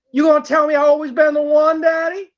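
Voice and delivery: coaxing, still contained plea; pleading question. Acted. Asking Daddy if she's the one, contained pleading. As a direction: press for reassurance without yelling yet. First, calmer take of escalating plea.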